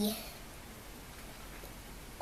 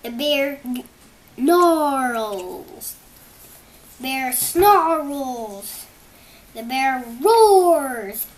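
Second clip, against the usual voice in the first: much louder, booming read-aloud; dramatic storybook reading; 3 semitones higher, 9 dB louder, slower than usual. Acted. Child reading the bear story aloud, booming and dramatic. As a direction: boom out each thing the bear does.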